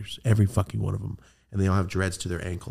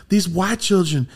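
baffled; 7 semitones higher, 3 dB louder than usual. Retold or imitated. Acts out friend's baffled reaction.

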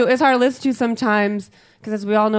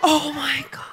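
higher, breath-caught mock horror; shocked; 5 semitones higher than usual. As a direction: gasp it out, scandalised. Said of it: "I'm like".

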